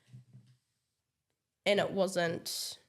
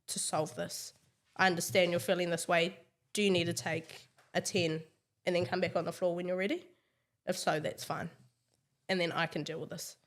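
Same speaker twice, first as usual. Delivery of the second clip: calm reassurance; 2 semitones lower, faster than usual. Retold or imitated. Leader talking a team member through a problem, calmly. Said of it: "I just come to them calmly".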